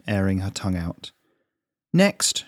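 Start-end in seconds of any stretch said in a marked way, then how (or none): 1.9-2.4 calling the next patient in, higher and louder; called out. A narrator's reading. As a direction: call it out across the room. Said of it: "she called".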